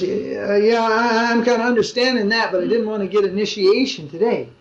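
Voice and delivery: stammering start, imitating awkward half-agreement; hesitant objection. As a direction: hedge politely while trying to back out. Acting out her awkward reply.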